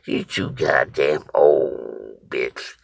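slow, drawn-out put-down at normal pitch; retold dismissal. Boy dismisses the storyteller as too old, slow put-down. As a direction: imitate the boy's unhurried insult. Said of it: "he just looked at me and said".

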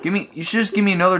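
high, frustrated whine at the game; exasperated pleading. Real, not acted. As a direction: plead high and indignant, dragging the end.

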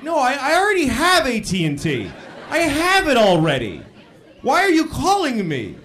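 high, loud, whining protest; exasperated. Acted. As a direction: protest in mock exasperation at the caller. Exasperated reply to the telemarketer.

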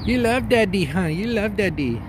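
high, sing-song puppy talk; pet voice. Real, not acted. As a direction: coo it to the puppy. Cooing to puppy.

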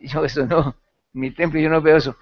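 new believer refusing to join in, loudly; loud refusal. Retold or imitated. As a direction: refuse it flat out, raising your voice. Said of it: "yo dije".

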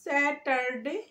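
SATURDAY as "SAT-ar-day", the r sounded. Shown as a demonstration. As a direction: say স্যাটারডে slowly, syllable by syllable with an r. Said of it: "আমরা বলি স্যাটারডে".

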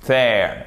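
THERE with a voiced TH, tongue between the teeth; th anglais correct. Shown as a demonstration. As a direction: say THERE with a buzzing English TH. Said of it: "pas hésiter à faire ce son". (« there » avec le th anglais, langue entre les dents)

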